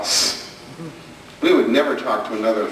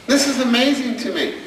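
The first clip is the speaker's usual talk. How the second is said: raised amazed emphasis; 9 semitones higher than usual. Real, not acted. Emphatic point to parents.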